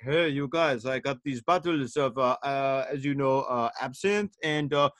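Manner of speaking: a clumsy put-on French accent, closer to Scandinavian; mock a Frenchman offering absinthe, not very convincingly; hammy fake French accent; bad French accent. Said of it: "not really a good ab-, French accent".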